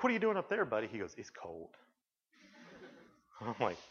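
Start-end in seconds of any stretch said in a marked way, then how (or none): 0.0-0.9 put-on high playful call to child. Teasing little son in pool. 1.2-1.7 put-on small child voice. Quoting small son's complaint.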